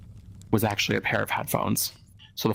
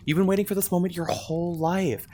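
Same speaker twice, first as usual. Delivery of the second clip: high dreamy voice; 8 semitones higher than usual. Acted. Dreamy cutesy host voice.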